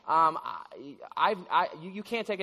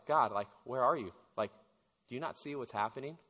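hushed complaint to God; 7 semitones lower, 6 dB quieter than usual. Retold or imitated. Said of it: "don't you say the same thing to God".

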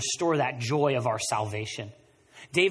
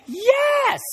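a big, much higher, louder yelp of joy; triumphant shout; 9 dB louder than usual. Pretend. Cheering over a twenty found in a pocket, shouting for joy. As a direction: shout it like you just won.

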